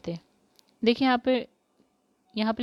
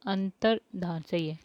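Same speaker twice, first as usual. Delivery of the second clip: whisper; 2 semitones lower, 3 dB quieter, slower than usual. Shown as a demonstration. Teacher marking answers.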